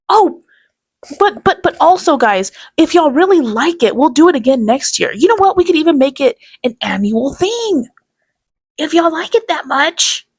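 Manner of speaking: high, loud hammed-up sales pitch; mocking salesman pitch. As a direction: backpedal like a sneaky seller. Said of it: "he's like".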